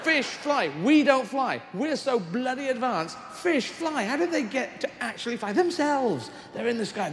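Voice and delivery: high, excited marvelling; amazed. Real, not acted. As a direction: marvel at flying fish, way up high.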